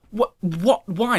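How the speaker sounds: high-pitched confused questions; baffled disbelief. Retold or imitated. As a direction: react in mock bewilderment. Retells baffled reply to directions.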